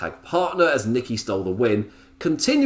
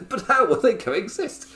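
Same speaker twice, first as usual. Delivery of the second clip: mock dramatic; 11 semitones higher than usual. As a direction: parody a storyline promo. Repeated mock cliché.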